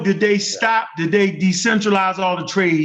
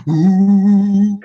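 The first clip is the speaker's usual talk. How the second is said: ghostly ooh; 6 dB louder than usual. Retold or imitated. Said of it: "but it's a ghost voice".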